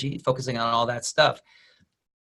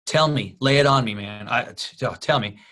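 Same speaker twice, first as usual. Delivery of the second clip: a hint of eager Kevin Hart; leaning in, louder, begging to hear; eager plea; 2 semitones lower, 3 dB louder than usual. Kevin Hart begging the Rock for the secret, mild eager plea. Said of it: "And he goes".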